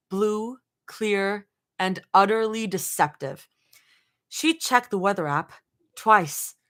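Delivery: measured storytelling read-aloud; lightly performed audiobook narration; story narration. A narrator's reading. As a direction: narrate in short, deliberate phrases. Reads fan fiction aloud.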